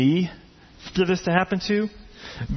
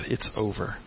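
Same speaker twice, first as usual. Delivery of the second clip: anxious whisper; 5 semitones lower, 6 dB quieter than usual. Retold or imitated. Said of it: "That whisper that".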